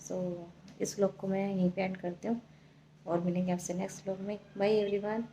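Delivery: soft, worn-out late-night voice; speaking softly after a long day of travel; tired and quiet. Real, not acted. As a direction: wind down sleepily before bed. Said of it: "मैं भी बस थक गई हूँ".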